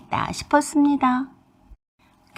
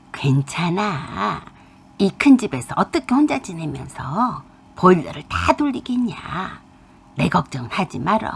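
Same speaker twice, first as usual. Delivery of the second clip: put-on old mother brushing it off; 3 semitones lower than usual. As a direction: play the tired old mother waving off worry. Old mother answers her daughter. (걱정 말라며 느리고 낮게 말하는 늙은 엄마)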